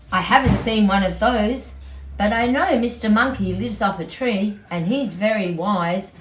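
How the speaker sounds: be a sorry sheep. Acted. Sheep keeps talking.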